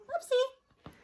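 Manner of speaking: high, loud, drawn-out hello to a visitor; high mock-surprised welcome with a laugh; surprised greeting. Real, not acted. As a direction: sing out a playful hello. Interruption, visitor greeted aside.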